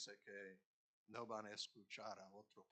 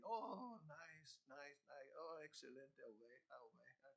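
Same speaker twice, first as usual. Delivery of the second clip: coaxing; 2 semitones higher, 4 dB quieter than usual. Retold or imitated. Coaxing sheep in retold story.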